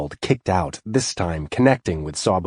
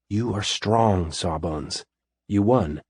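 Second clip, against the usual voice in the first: slow, soft reassurance; soft, calming; slower than usual. Acted. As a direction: soothe a friend out of his rage. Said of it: "speaking softly".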